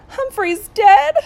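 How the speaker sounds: high, loud, drawn-out mock wail; sobbing child. A narrator's reading. Brenda fears the hamster is dead, sobbing. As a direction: wail it slowly like a tearful little girl. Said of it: "she sobbed".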